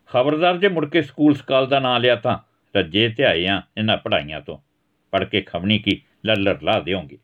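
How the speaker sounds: a fed-up father laying into his son; angry father scolding. Acted. Father scolding his son for going to the pond, angry.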